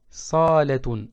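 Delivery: salatun with the sa held; long A on sa; long first vowel. Shown as a demonstration. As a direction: stretch the sa in salatun. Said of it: "ça signifie salon".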